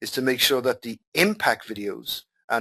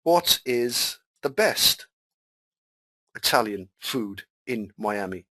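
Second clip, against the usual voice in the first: imagined searcher; 2 semitones lower, slower than usual. Retold or imitated. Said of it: "I might say".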